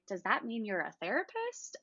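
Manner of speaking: puzzled question with a rising end; imitating a confused listener; mock confusion. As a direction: ask it as if mildly baffled. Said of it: "everybody's confused face".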